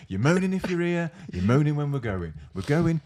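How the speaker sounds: high, loud mock telling-off; hammed-up boss scolding; mock berating. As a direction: bark it like a fed-up boss. Director berating, acted.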